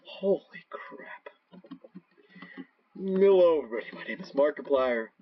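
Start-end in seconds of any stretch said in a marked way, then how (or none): 2.9-5.1 lightly voiced YouTuber greeting; Markiplier impression. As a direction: greet the audience like a big YouTuber. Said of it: "doing the Markiplier impression".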